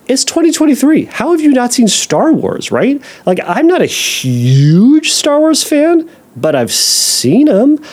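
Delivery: teasing disbelief at a client; mock disbelief. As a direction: play up the outrage that they missed it. Mock disbelief about Star Wars.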